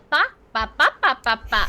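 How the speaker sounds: loud, punchy string of "ba"s; imitated YouTube short. Reminded of a YouTube short, imitating its repeated "ba". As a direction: fire off the syllable like a video gag. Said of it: "reminds me of that YouTube short".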